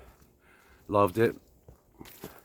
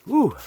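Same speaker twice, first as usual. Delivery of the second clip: breathless exhale; 14 semitones higher, 5 dB louder than usual. Real, not acted. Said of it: "I don't know why I'm out of breath".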